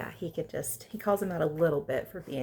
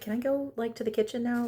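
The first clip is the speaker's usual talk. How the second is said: impatient; 5 semitones higher than usual. Retold or imitated. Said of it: "She's like".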